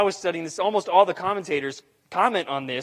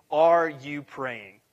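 drawn-out, weighty question; slow and deliberate; 2 semitones lower, much slower than usual. Shown as a demonstration. Pastor presses the congregation with a slow question. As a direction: let each word sit, very slowly. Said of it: "repeated question, first take slow".

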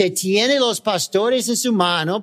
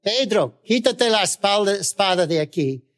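voice of Jesus; 3 semitones higher than usual. Acted. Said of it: "Él dijo".

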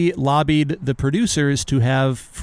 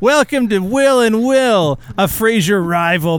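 podcast host intro voice; 6 semitones higher, 3 dB louder, slower than usual. Acted.

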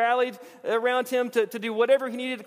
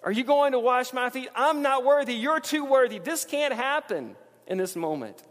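Peter, stunned, protests to Jesus in a lightly raised voice; mock Peter protest; 5 semitones higher than usual. Peter pleads with Jesus not to wash his feet, mock astonished. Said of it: "the first words Peter says is".

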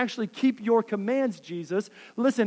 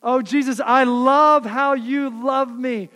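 gushing prayer; 3 semitones higher, 7 dB louder than usual. Acted. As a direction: pour it out like worship you don't mean. Voicing a gushing half-hearted believer.

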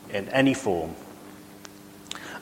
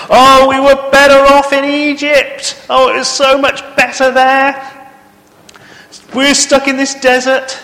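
high, loud whining complaint; moaning Israelites; 10 dB louder than usual. Acted. Preacher voicing the grumbling Israelites, loud high whine. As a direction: whine like grumbling wanderers pining for Egypt.

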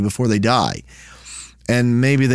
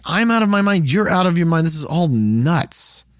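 exasperated outburst; 5 semitones higher than usual. Acted. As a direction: throw up your hands at the madness. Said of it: "He's like".

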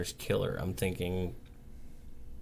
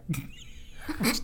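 breathy laugh into mic; 14 semitones higher than usual. Real, not acted. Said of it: "Who's breathing into the mic?".

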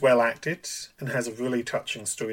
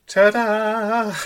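magician's assistant; 10 semitones higher, 10 dB louder than usual. Pretend. Show-off reveal after finishing episode.

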